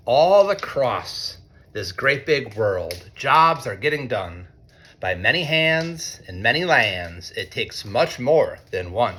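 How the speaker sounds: lightly sing-song storybook reading; reading to children. A narrator's reading. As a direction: read it like a picture book to a class. Reads picture book to students.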